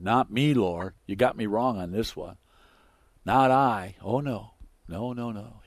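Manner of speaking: mock-cocky denial; hammed-up boastful protest; boastful Peter. Mocks Peter's earlier boasting.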